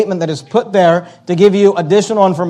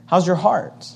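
put-on much softer, as if to a child; gentle parent question; 8 dB quieter than usual. Parent asking their child, soft and gentle. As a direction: ask it softly, like checking on your kid.

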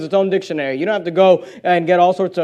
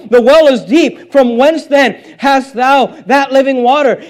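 raised, driving pulpit reading; forceful scripture preaching; 3 semitones higher, 3 dB louder than usual. Acted. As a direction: preach the verses out with urgency. Preacher reads scripture dialogue forcefully.

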